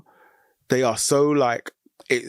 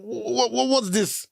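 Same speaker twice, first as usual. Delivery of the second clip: confused; 12 semitones higher, much slower than usual. Retold or imitated. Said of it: "first of all, it's like".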